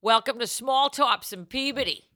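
put-on light Boston accent; Boston porn accent. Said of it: "Boston accent".

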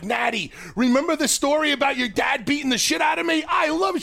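high, cheerful mock shout to Natty; playful shout. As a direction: call it out high and gleeful. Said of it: "I'm like".

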